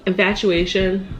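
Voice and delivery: infatuation said slowly and pointedly; stress on infatuation. Shown as a demonstration. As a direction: linger on the word infatuation. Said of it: "the word infatuation".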